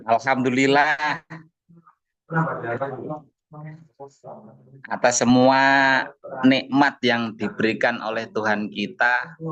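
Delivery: talking around a cigarette; words round a cigarette; cigarette in mouth. Real, not acted. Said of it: "Sambil ngerokok dulu".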